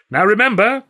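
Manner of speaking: high, loud theatrical warning; showman clown. A narrator's reading. Clown lays down rules for the bowler, proclaiming. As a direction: proclaim it to the whole ring. Clown instructs volunteer before crowd.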